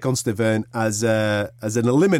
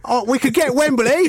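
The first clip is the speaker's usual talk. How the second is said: high, cheeky wheeler-dealer voice; Eddie Hearn impression; 13 semitones higher, 3 dB louder than usual. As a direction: play the sly Essex promoter.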